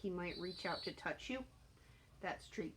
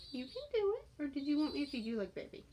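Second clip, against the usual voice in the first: much higher sing-song coaxing; cheering pet talk; 6 semitones higher, 3 dB louder, faster than usual. Real, not acted. Encouraging bird, baby talk.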